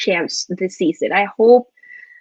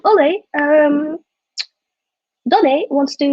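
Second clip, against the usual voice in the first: a self-mocking stab at British English; bad British accent; 4 semitones higher than usual. Vlogger voicing Ed Woodward pitching Donny to Ole, bad British accent. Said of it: "That was a horrible accent".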